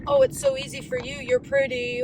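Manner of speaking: high-pitched, loud mimicry; mocking commenters. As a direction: put on a squeaky, fast mocking voice. Mimicking commenters' envious remarks.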